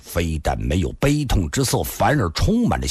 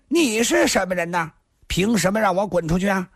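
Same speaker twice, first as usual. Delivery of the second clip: put-on high-pitched drunken rant; indignant yelling; 10 semitones higher than usual. A narrator's reading. Drunk youth defying the man ordering him out, yelling. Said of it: "少年叫了起来".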